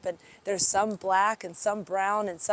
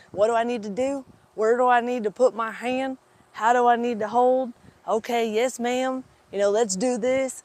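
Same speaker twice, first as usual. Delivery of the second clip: raised-pitch cowboy questions in a rough Kentucky-Texas blend; poor cowboy accent; 4 semitones higher, 5 dB louder than usual. Retold or imitated. Rancher asking the chiropractor how to help, imitated Kentucky-Texas accent. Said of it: "my poor accent there from my Kentucky, Texas blend".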